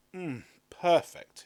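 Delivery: pleased exclamation. A narrator's reading. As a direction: savour the taste. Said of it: "he exclaimed".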